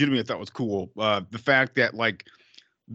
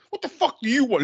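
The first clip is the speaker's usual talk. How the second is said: mock snapping; 10 semitones higher than usual. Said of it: "He's like".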